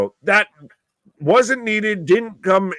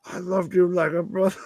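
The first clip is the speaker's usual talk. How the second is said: mock-tragic farewell, a little higher; hammed-up Obi-Wan; 4 semitones higher, 3 dB quieter than usual. Quoting the Jedi to his fallen brother, mock-tragic. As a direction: play the heartbroken Jedi lightly. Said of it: "Obi-Wan and Anakin".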